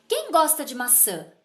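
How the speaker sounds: "quem gosta de maçã?" como pergunta, with QUEM starting high and falling towards "maçã"; entonação de pergunta. Shown as a demonstration. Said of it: "Pela entonação da minha voz". ("quem gosta de maçã?" com entonação de pergunta, começando agudo em "quem")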